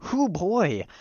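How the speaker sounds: high, loud exclamation; overcome, hammed-up outburst; flustered whoop. Flustered mid-confession in acted dialogue.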